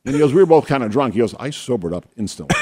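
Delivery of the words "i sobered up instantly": retold flatly, no emotion; mild deadpan delivery of a shocking line. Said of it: "so deadpan".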